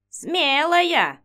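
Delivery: high approving exclaim; approving old witch. Acted. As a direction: praise her boldly, old crone. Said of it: "одобрительно кивнула Инга".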